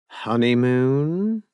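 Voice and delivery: slow, drawn-out suggestive question; meaningful. Acted. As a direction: stretch it out, full of meaning. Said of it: "Robin said meaningfully".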